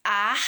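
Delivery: "ar" alone, drawn out and firm; isolated syllable. Shown as a demonstration. Teacher sounding out the first syllable to a class, isolated syllable. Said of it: "Primeira sílaba".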